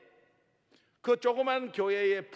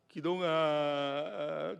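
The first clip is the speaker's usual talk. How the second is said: tearful mother; 4 semitones lower, much slower than usual. Retold or imitated. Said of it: "우리 어머니가 막 우시는 거야".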